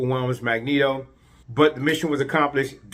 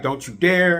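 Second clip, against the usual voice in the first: raised, indignant retort in imitation; mock freak-out; 5 semitones higher, 3 dB louder than usual. Rogue objects to Magneto holding her back, mock freak-out. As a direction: act out a mild, higher-pitched outburst. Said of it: "Rogue freaks out".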